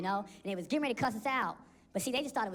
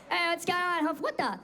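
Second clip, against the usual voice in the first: angry dad. Retold or imitated.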